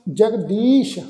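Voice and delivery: ਜਗਦੀਸ਼ with long ee and final sh; dotted sh sound. Shown as a demonstration. Teacher models the dotted letter, ਜਗਦੀਸ਼ ending in sh. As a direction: end ਜਗਦੀਸ਼ on a clear sh. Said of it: "ਸੱਸੇ ਦੇ ਪੈਰ ਵਿੱਚ ਬਿੰਦੀ ਲਗਾ ਕੇ".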